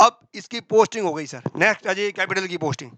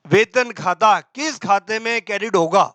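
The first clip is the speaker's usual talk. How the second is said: spaced-out, measured exam question; slow question reading. Shown as a demonstration. Teacher reads an MCQ to the class, slowly. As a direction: read it out slowly and deliberately.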